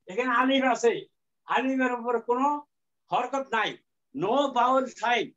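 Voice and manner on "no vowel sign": slow emphasis. Shown as a demonstration. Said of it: "teacher stressing the rule".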